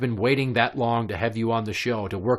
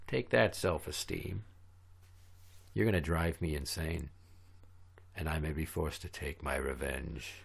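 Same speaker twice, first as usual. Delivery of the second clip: deep, low trailer narrator; menacing trailer voiceover; movie trailer voice; 5 semitones lower, 12 dB quieter than usual. Pretend.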